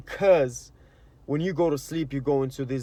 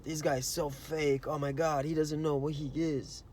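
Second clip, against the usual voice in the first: quiet, scornful aside about a fake guy; muttered envy; 7 dB quieter than usual. Scrolling Instagram and scoffing at a happy stranger, quietly scornful. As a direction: grumble it under your breath with mild contempt. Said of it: "And you're like".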